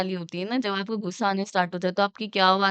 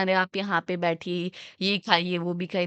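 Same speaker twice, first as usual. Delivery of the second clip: happy friendly tone; 2 semitones lower than usual. Shown as a demonstration. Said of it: "that is called happiness".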